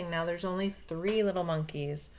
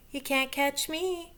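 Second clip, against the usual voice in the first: high, slow sing-song taunt; a cheeky little monkey daring the crocodile; teasing monkey; 8 semitones higher than usual. Acted. Monkey taunts crocodile, high cheeky sing-song.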